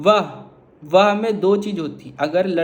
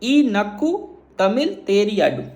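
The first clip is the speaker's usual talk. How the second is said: slow Tamil demo; slower than usual. Shown as a demonstration. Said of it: "तो मैं इसको कैसे बोलूँगा?".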